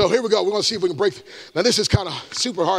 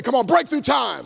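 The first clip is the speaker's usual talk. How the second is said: more energy. Shown as a demonstration. Preacher demanding more energy from the crowd, pumped up. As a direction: pump it up for the crowd. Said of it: "give me a little more energy".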